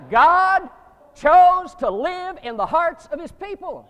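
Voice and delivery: loud, high preaching climax; preaching shout. Real, not acted. Preacher rousing his congregation with a loud climax. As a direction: belt it out to rouse the congregation.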